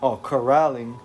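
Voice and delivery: steady recap read for the stream; story narration. A narrator's reading. Streamer reading the recap to chat, steady narration. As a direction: read it like a comic book intro. Reads the comic recap aloud.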